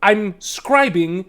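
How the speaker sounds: high, loud, fussy little gnome; a busy gnome who has no time to spare; harried gnome voice. Acted. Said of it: "he kinda squints at you and he goes".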